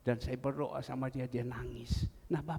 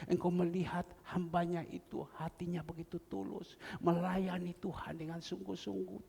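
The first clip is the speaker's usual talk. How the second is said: earnest prayer; 2 semitones higher than usual. Retold or imitated. Pastor praying for a sick husband, earnest pleading prayer. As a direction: lift it to God as a heartfelt petition.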